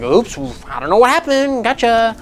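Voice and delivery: lightly put-on oopsie voice; mock innocent. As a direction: play innocent about an oops. Acts out a faked shipping slip.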